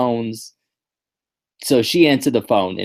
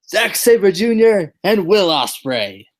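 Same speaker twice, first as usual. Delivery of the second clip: gasping surprise; 8 semitones higher, 4 dB louder, slower than usual. Acted. Reveal after drum roll.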